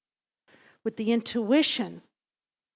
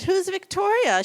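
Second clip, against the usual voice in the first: puzzled question; 11 semitones higher, 7 dB louder than usual. Retold or imitated. Mother asks daughter, puzzled.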